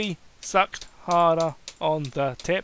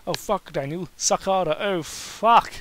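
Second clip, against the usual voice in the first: hammed-up moan; 2 semitones higher, 3 dB louder than usual. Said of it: "He grunted and moaned".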